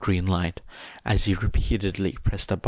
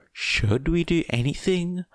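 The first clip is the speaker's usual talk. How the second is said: blunt; 10 semitones higher than usual. A narrator's reading. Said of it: "asks Tsuyu bluntly".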